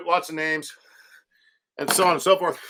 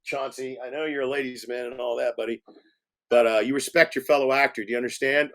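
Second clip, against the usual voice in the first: quiet stern talk; 5 semitones lower, 3 dB quieter, faster than usual. Retold or imitated. Director lectures the child actor.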